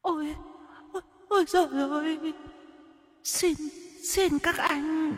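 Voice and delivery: very high, soft, tearful pleading; whimpering ghost. Acted. The ghost woman begging the men for mercy, whimpering. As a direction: whimper your sad tale. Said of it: "mếu máo".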